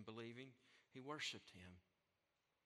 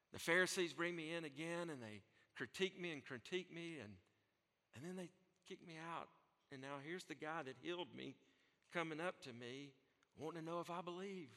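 voicing the healed man, weary then worked up; a worn-out man telling his story, rising to excitement; tired healed man; 4 semitones higher than usual. Healed blind man vents to preacher, weary then excited. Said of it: "To me, that sounds like he was tired".

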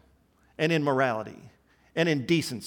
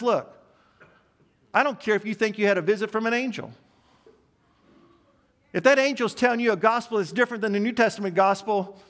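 higher, fast and insistent; emphatic Paul; 5 semitones higher, faster than usual. Retold or imitated. Preacher voicing Paul's warning to church, fast and emphatic. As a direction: press it hard, like a warning. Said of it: "he says it so emphatically".

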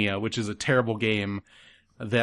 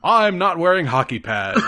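Batman growl; 6 semitones higher, 6 dB louder than usual. Retold or imitated. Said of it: "What was that one scene?".

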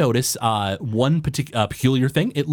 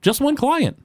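much higher, sweet shopkeeper voice; a small forest gnome greeting a customer; high-pitched gnome shopkeeper; gnome baker. Acted.

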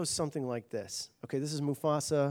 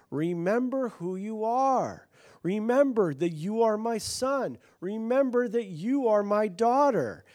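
louder, slow, emphatic and proclaiming; preached declaration; 7 semitones higher, 6 dB louder than usual. Acted. Pastor voicing God to the congregation, louder and slow. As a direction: proclaim it like God calling his children. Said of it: "when he says to us".

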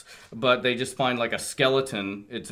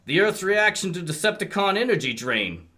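a touch higher, grave robot report; lightly voiced Wheeljack; 6 semitones higher than usual. Reading Wheeljack's warning to the cohosts, lightly raised. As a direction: deliver doom like a cartoon scientist.

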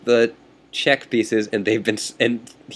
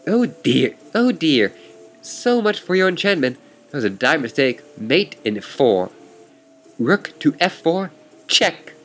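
lightly voiced haughty opponent, pitched higher; smug chess rival; 4 semitones higher than usual. Chess rival taunting the player, lightly voiced and smug. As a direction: needle your opponent with mild mock arrogance.

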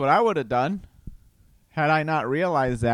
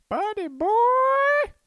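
high, slow breathy whisper; mock whisper; 4 dB louder, much slower than usual. Teasing his inner child in a slow playful whisper.

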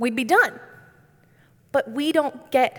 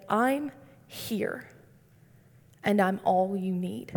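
hushed and gentle, barely above a breath; soft whisper; 4 semitones lower, 6 dB quieter, slower than usual. Retold or imitated. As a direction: say "I'm here" softly, as if God whispers it close. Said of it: "God whispered to me and said".

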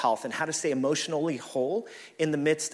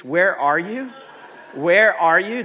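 louder, higher repeated demand; all caps yelling; 4 semitones higher, 9 dB louder, slower than usual. Retold or imitated. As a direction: shout it like a text in capitals. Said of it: "like, all uppercase".

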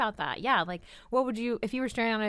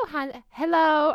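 loud, higher, drawn-out stab at an Australian accent; attempted Australian accent; 7 semitones higher, 7 dB louder, slower than usual. Shown as a demonstration. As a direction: try an Australian hello and miss. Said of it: "I can't do the accent".

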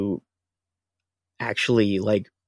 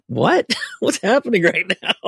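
baffled laugh; 9 semitones higher, 3 dB louder than usual. Retold or imitated. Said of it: "I was like".

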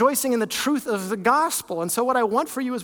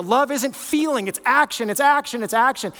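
mock insistence; 3 semitones higher than usual. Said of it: "some Christians will make a big deal".

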